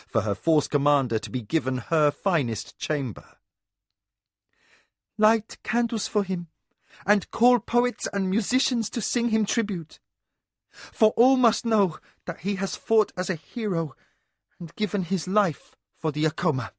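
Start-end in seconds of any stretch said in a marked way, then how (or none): 5.2-16.7 imperious mistress. A narrator's reading. Mistress orders tribute, grieving.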